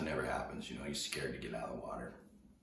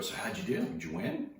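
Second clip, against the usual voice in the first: higher, sing-song mocking rise on do; teasing; 5 semitones higher, 3 dB louder than usual. Surfer harassing the kid who lost the first heat, mocking. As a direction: needle him with fake innocence. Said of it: "I'm just harassing the kid".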